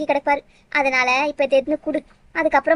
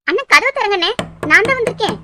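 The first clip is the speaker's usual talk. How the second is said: tearful calling out; 6 semitones higher than usual. Acted. Calling through locked door, crying.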